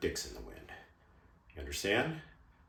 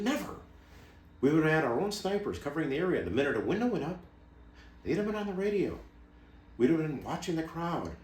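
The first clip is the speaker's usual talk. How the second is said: emphatic, higher-pitched outrage; indignant insistence; 3 semitones higher than usual. Acted. Former ops chief listing skipped security measures, indignant and insistent. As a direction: drive each point home, pitch leaping on key words.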